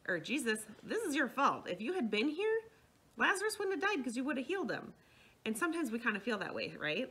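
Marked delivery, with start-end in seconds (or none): 0.1-4.9 higher, louder mock reproach; mildly acted indignant complaint; retold accusation. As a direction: voice Martha blaming Jesus, pitch climbing. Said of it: "Martha's like".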